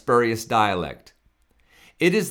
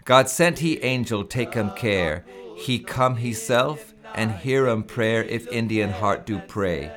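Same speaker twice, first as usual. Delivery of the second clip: measured recital of hymn verses; solemn hymn recital. Shown as a demonstration. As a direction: read it like a solemn old poem.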